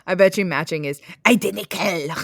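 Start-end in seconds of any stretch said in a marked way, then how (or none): 1.3-2.1 put-on German-accented English word; mock German accent. Guessing the German word for co-host, mock German accent. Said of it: "I'm sorry for every German I just offended".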